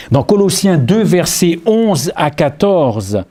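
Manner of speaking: slow emphatic announcing of the verse; preaching reference. Acted. Preacher announcing a passage to the congregation, slow and emphatic. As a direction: spell out the reference slowly.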